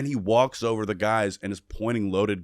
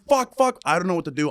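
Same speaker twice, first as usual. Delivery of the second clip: high-pitched mock panic, easing off; acted-out flustered alarm; retold freak-out; 8 semitones higher, 3 dB louder than usual. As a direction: re-enact panicking, loud burst then settling. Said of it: "I'm freaking out".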